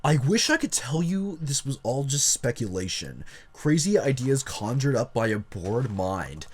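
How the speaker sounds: lightly voiced jock reading aloud; a hint of jock in the narration. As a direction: put on a touch of jock swagger. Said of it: "read this in the jock voice".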